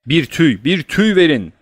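high, loud emergency order; doctor shouting for something at once; urgent demand. A narrator's reading. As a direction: call out urgently, rising on the repeat.

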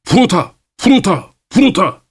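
slow, high drawn-out call; workers calling out. Acted. Dock workers call fruta across the ship, slow and high. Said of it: "ambardaki adamların sesi geldi".

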